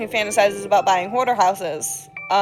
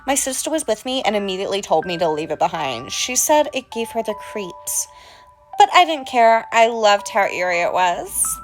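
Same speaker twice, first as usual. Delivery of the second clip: creepy storyteller voice. Acted. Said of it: "without this accent".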